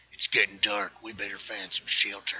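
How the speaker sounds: put-on Wild West cowboy accent. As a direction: say it like a cowboy on the trail. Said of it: "I'm practicing my cowboy voices".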